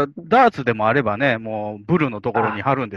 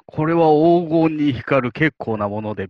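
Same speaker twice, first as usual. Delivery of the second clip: period drama merchant; 2 semitones higher, slower than usual. Pretend. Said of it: "みたいな".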